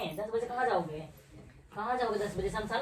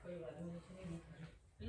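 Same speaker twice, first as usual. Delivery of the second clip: much softer, lower refusal; wife sulkily refusing the gift, much softer; sulky mutter; 4 semitones lower, 18 dB quieter than usual. Real, not acted. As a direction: mutter it under your breath.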